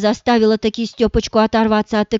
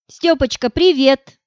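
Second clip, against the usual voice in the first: chirpy casual tone; 3 semitones higher than usual. Acted. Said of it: "прощебетала Маша в трубку самым непринуждённым тоном".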